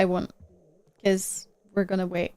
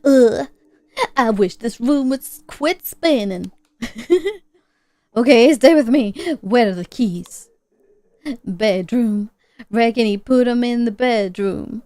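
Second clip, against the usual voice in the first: put-on injured old-timer; 5 dB louder than usual. Voices the injured man.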